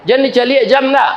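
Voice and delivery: seruan tegur yang cepat dan keras; teguran keras. Acted. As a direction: tegur jamaah yang melirik jam, cepat dan lantang. Preacher scolds clock-watching congregation. (menegur jamaah agar jangan melihat jam, dengan suara keras)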